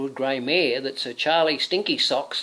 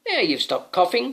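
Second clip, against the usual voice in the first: knight voice; 8 semitones higher, 4 dB louder than usual. Acted. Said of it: "said the knight".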